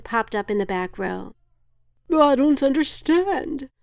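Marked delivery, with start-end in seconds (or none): 2.1-3.7 breathless. A narrator's reading. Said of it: "he said breathlessly".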